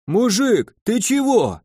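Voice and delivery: high, wailing cry from the shed; wailing zombies. A narrator's reading. Zombies in the shed wail at the gnome, high. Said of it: "заголосили из сарайчика".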